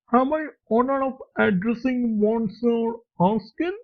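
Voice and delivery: put-on polite old man, a light touch of French accent; slight French accent. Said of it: "said in a slight French accent".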